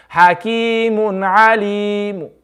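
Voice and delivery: Alim ending with a faint whispered trace of the u vowel; slow Hakimun Alim ending with a faint u sound; stop with rom. Shown as a demonstration. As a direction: breathe a third of the dhamma onto Alim. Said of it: "And this is rom".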